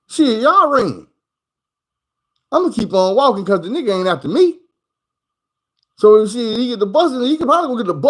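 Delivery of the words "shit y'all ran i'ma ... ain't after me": retold thought, mildly voiced. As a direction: drag out the thought like a shrug. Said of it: "I'm like".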